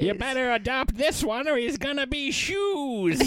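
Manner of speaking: laughing Cruella voice. Acted. Cruella hosting Puppy Bowl.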